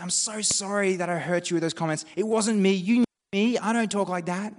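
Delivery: mock earnest excuse; pleading apology. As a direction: insist "it wasn't me". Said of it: "you might say".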